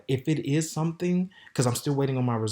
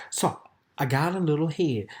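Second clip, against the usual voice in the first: whisper; 2 semitones higher than usual. Real, not acted. Confiding a sexual detail to viewers.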